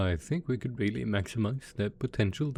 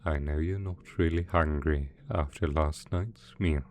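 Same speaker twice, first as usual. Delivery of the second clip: gentle coaxing; 2 semitones lower than usual. Acted. Villain coaxing two pet dragons to eat, gently soothing.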